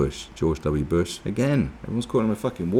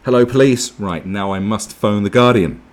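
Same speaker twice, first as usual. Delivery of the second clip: neighbour calling police; 2 semitones higher, 8 dB louder than usual. Acted. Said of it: "so they called the police".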